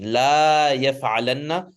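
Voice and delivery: لا held very long before يفعلن; long vowel on لا. Shown as a demonstration. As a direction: stretch the vowel of لا, then finish يفعلن. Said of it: "that's lam with the alif".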